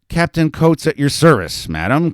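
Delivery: loud, high self-introduction; aimless shout. A narrator's reading. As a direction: shout it to nobody in particular. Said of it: "Coates shouted aimlessly".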